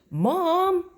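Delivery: high, loud scream of "Mom!". Acted. Boy screaming at his mom after she teases him about Judy, loud and high. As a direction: shriek it like a mortified kid. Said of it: "I screamed".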